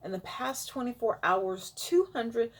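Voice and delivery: blocked nose voice; stuffy nose. Real, not acted. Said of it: "I don't know why I'm stuffed up".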